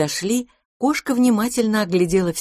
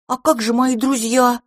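put-on high, eager little child voice; little boy voice; 6 semitones higher, 3 dB louder than usual. A narrator's reading. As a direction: speak like a small pleading boy.

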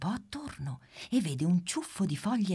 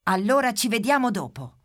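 put-on higher, louder little girl's goodbye; cheerful Pimpa; 8 semitones higher, 7 dB louder than usual. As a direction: call it out brightly as you run off. Pimpa says goodbye, running off.

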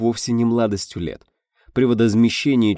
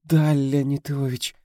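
slow, breathless, higher little voice; breathless babble; 7 semitones higher, slower than usual. A narrator's reading. Actress answering the director, breathless babble. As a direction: stammer it out, short of breath. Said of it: "пролепетала актриса, задыхаясь".

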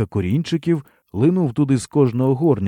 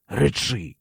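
choked command; 4 dB quieter than usual. A narrator's reading. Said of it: "здавленим горлом наказав".

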